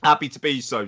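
words round a sip of beer; while sipping a drink. Real, not acted. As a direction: talk with a drink at the lips. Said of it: "Sorry, I was taking a sip of beer".

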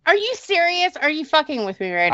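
high, incredulous question; can't believe it; stunned disbelief. Real, not acted. Sister stunned by coincidence.

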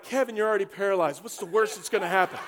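fast, laughing quip; amused fast brush-off; laughing retort. Acted. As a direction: toss it off through a laugh. Friends brushing off Kevin.

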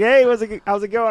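high bright mock greeting; chirpy greeting. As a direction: chirp it like a cheery acquaintance. Comedian greets on street.

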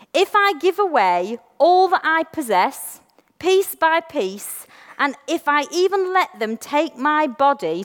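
slow, measured reading aloud; slow scripture reading. Shown as a demonstration. Reading scripture to the church, slow. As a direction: read it slow, letting each line land. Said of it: "I'm gonna read it slow 'cause I practiced".

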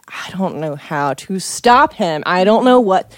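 retold indignation, stressed and drawn out; mildly worked-up, slow outrage; indignant. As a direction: replay being angry and at a loss. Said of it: "I'm so indignant and I'm so".

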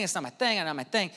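mumbled into nothing; fading repeat. Retold or imitated. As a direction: let the excuse die away quietly. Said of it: "I think a lot of us say".

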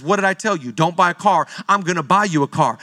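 low, stern voice of God repeating himself. Acted. Preacher voicing God telling him again not to buy a car, low and stern. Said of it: "God says".

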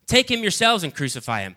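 loud high crowd shout. Acted. Priests shouting at Pilate, loud and high. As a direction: yell it for his death. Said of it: "began shouting".

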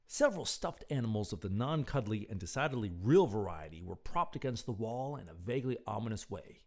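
measured, expressive storyteller; story narration. A narrator's reading. Narrator telling of Doctor Electro in the culvert, story narration. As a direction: read it out like an evening tale.

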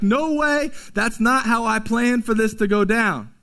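a mild mock protest from Peter; indignant Peter. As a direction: push back like a stubborn disciple. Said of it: "Peter is still like".

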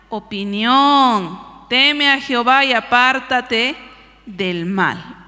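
slow, measured Bible reading with long pauses; scripture reading. Acted. Preacher reading Proverbs to the congregation, slow and emphatic. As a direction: read it out slowly, phrase by phrase. Reads Bible verse aloud.

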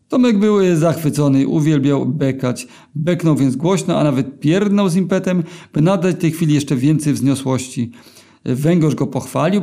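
ordinary delivery

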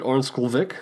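Ornsköldsvik said with a light put-on Swedish lilt; mock Swedish accent. Shown as a demonstration. Host naming the Swedish airport, lightly mock Swedish accent. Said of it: "I don't know why I say that with an accent".

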